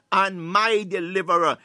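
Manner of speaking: loud declaration of faith; with conviction. Shown as a demonstration. Preacher modelling the psalm for listeners, with conviction. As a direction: proclaim it confidently. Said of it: "saying this thing with conviction".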